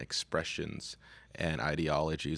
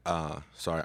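out of breath. Real, not acted. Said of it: "still out of breath".

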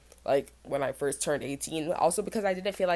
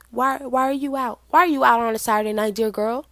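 higher, louder incredulous questioning; mock scolding; 6 semitones higher, 6 dB louder than usual. Older student to an eighteen-year-old out clubbing, mock scolding. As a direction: demand an answer in mock dismay.

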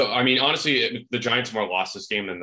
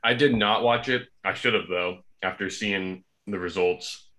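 chewing while talking. Real, not acted. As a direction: mouth full of food. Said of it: "You see, I'm chewing".

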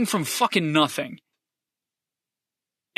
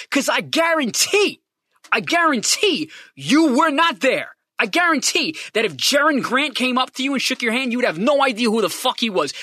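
heated, rising rant at critics; emotional rant. Real, not acted. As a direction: fire back at the doubters. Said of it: "I'm getting a little emotional".

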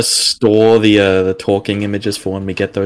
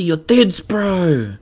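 Kiwi accent; 7 semitones higher, much slower than usual. Shown as a demonstration. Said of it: "didn't do it correctly".

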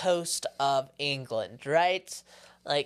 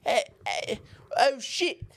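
mock English accent; 6 semitones higher than usual. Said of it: "I don't know what the English sound like".

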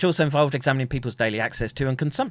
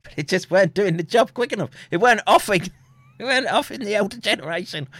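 mock villain narration; 8 semitones higher, 4 dB louder, faster than usual. Villain plot mocked in voice.

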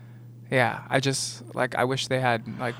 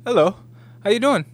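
high, chirpy mock British accent; British actor impression, teasingly high; 8 semitones higher, 4 dB louder than usual. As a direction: put on a polite British interview voice, pitched up. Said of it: "you see 'em post-production and interview".

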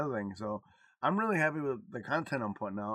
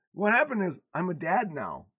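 high, loud comic protest; mock exasperated dad; 9 semitones higher, 7 dB louder than usual. Dad retells protesting to his daughter, high and loud. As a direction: rant in playful outrage. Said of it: "I said".

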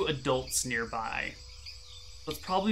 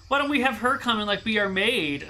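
a bad attempt at a Cockney kid, pitched much higher; failed Cockney kid voice; 7 semitones higher than usual. GM voices rich kids gossiping about Janet, failed high Cockney. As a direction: GM squeaks out a rich kid's Cockney and misses it. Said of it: "I can't do a Cockney accent".

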